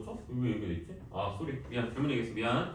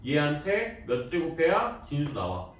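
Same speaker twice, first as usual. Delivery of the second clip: slow, deliberate read-out of "얘한테 몇 제곱해야 진수 나와?"; 2 semitones higher, slower than usual. Shown as a demonstration. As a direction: draw out "몇 제곱해야" as a model question. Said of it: "이렇게 읽는 거라고". (천천히 또박또박 읽는 시범)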